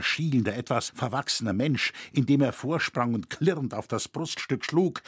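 ordinary talk, nothing marked

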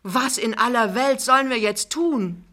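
loud, high, desperate appeal; choking up. A narrator's reading. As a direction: cry out, close to tears. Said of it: "Plötzlich fängt er an zu schlucken". (verzweifelt, den Tränen nahe)

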